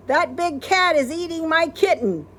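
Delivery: high, loud alarm; worried cry. Acted. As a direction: panic for the kitten. Alarm over kitten.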